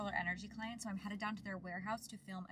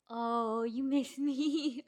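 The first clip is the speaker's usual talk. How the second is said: squeaky praising a dog; 5 semitones higher, 11 dB louder, much slower than usual. Real, not acted. Talking to her dog.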